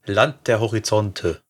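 slow, drawn-out slogan delivery; measured advertising tagline; slogan recital. Retold or imitated. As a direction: say it like an ad tagline, unhurried.

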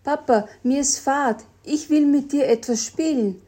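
little lizard whining at her sleepy dad; whining little girl. Acted. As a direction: pester dad like a bored child. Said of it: "raunzte Jelly ihrem Papa Jelon zu".

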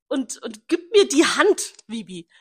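imitating him. Retelling his goodbye, she drags out his words mockingly. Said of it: "retells his goodbye".

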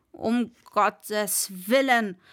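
slow, horrified exclamation; mock horror. Master reacting to the wrong direction, slowly horrified. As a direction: make it sound like a disaster. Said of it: "rief der Mann entsetzt".

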